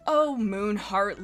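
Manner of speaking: slow weary sigh on the name. Acted. Lily Splash sighing at Moonheart, slow and weary. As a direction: sigh it out, long-suffering. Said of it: "Lily Splash sighed".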